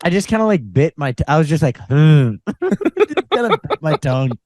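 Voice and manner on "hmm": loud stifled "hmm"; aborted word attempt. Telling how the accent attempt failed, stuck grunt. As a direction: imitate a word stuck on a bitten tongue. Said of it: "tried to start forming a word".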